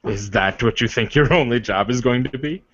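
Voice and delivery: a hint of a formal, courtly warrior; lightly voiced noble warrior. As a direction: speak as a proud suitor, measured and earnest. GM voices NPC suitor.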